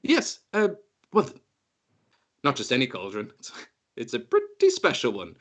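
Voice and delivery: hint at the cauldron vaguely. Acted. GM voices Rua.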